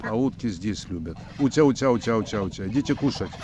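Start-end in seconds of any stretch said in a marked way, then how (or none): 1.4-3.3 loud, high sing-song call to the ducks; calling ducks to eat. Real, not acted.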